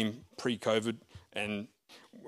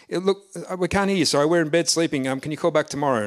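higher and louder, calling over a crackling line; raised voice into a phone; 4 semitones higher, 5 dB louder than usual. Retold or imitated. Preacher in bed calling into the phone, loud. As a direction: speak up so the caller hears.

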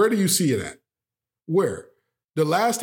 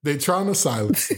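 laughing. Real, not acted. Repeats friend, laughing.

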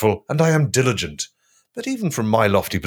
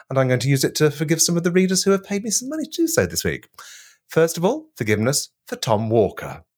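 grand proclamation; 6 semitones higher than usual. Acted.

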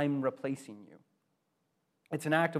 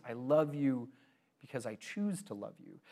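tender; 2 semitones lower, 6 dB quieter than usual. Acted. Tender climax of sermon point.

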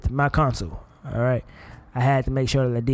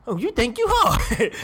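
high, slow taunting dare to a cocky son; a hammed-up angry father; mock tough dad; 7 semitones higher than usual. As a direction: challenge him like a dad squaring up, drawn out. Confronting imagined son.

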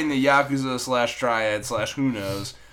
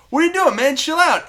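much higher, louder mock protest; whiny pitched-up Scott voice, hammed-up; pitched-up teammate telling Logan to chill; imitating exasperated Scott; 6 dB louder than usual. Scott protesting, retold quarrel.

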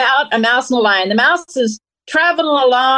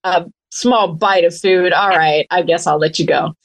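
lower, drowsy lion voice; a lazy, half-awake big cat; sleepy lion; 4 semitones lower than usual. Acted. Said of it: "sleepy and stuff".

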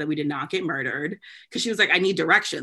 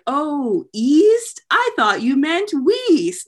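Patrick; 9 semitones higher, 6 dB louder, much slower than usual. Retold or imitated. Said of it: "And Patrick's like".

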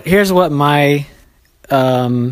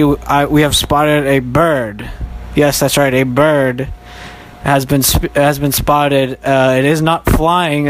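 mock field reporter; 3 semitones higher than usual. Reporting out in the field as the hurricane comes, hammed-up news reporter voice. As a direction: play a storm reporter braving the rain.

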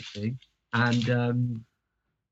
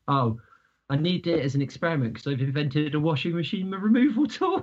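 quote through laughter; 2 semitones higher than usual. Retold or imitated. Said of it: "and he goes".

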